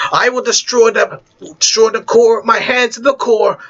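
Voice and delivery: raging, then breaking into a cry; a beaten villain spitting his last threat; defeated villain's last words. Acted. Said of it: "But he said his final words".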